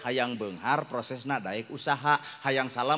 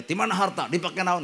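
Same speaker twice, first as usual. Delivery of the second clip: angel questioning; 5 semitones higher than usual. Acted. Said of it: "Coba nu beunghar ditanya".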